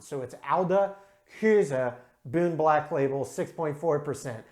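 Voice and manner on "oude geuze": "oude Küse", each word ending in an uh; Dutch pronunciation. Shown as a demonstration. Correcting his beer-name error, "oude Küse" with final uh on both. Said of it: "E's are pronounced in Dutch".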